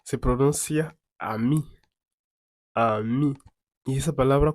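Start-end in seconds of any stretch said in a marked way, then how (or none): 1.2-1.6 careful teaching model of "ami", ending on a clear ee; "ami" in two clean syllables, French style; French pronunciation. Shown as a demonstration. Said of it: "¿Cómo se pronuncia?". 2.7-3.3 careful teaching model of "ami", ending on a clear ee; "ami" in two clean syllables, French style; French pronunciation. Shown as a demonstration. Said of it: "¿Cómo se pronuncia?".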